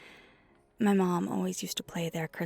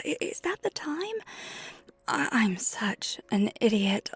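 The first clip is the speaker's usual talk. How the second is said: stammering, apologetic panic at being late; flustered alarm; 3 dB louder than usual. Acted. Skater who is late for meeting friends, flustered. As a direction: realise the time and apologise, louder. Suddenly realises they are late.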